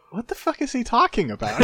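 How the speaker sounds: high-pitched, incredulous emperor on the edge of laughter; mock bafflement. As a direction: squeak it out in comic disbelief. Acts emperor baffled by the letter.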